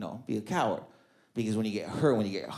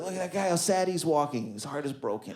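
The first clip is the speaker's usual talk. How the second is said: soft gossiping pity; pitying whisper; 6 dB quieter than usual. Retold or imitated. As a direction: murmur it with mock sympathy. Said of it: "You're like".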